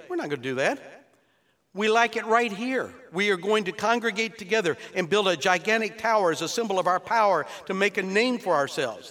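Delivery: a touch of smug defiance; defiant mankind. Retold or imitated. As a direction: voice proud, stubborn men. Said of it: "What did man say".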